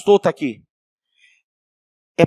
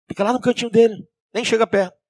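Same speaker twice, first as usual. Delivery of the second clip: ordinary talk, nothing marked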